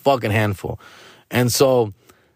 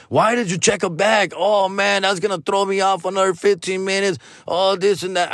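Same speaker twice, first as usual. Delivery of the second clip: whiny friend; 6 semitones higher than usual. Retold or imitated. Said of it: "friend complains about bag".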